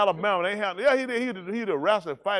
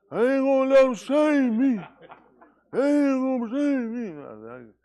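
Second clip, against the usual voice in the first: imitated vow; 7 semitones higher, 4 dB louder, slower than usual. Mocking his vow on arrival.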